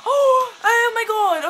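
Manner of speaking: laughing. Real, not acted. Breaks off mid-sentence laughing.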